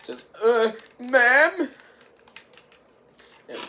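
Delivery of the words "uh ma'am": higher, louder uneasy query; mock scared question. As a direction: call it out in pretend fright. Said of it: "like, all scared".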